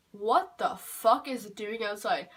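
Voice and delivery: slow, blunt, exasperated; blunt thought. Retold or imitated. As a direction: drag it out, fed up. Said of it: "I didn't say it like that to the child".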